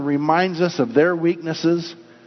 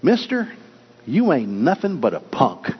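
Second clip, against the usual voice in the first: talking parrot. Acted. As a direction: toss out a parrot's taunt, pitch jumping then dropping. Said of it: "the parrot said".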